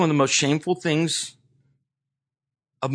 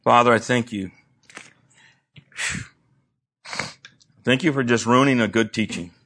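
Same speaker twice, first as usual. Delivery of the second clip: praying aloud. Real, not acted. Pastor praying over the standing congregation, fervent prayer. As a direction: pray over the church with growing force.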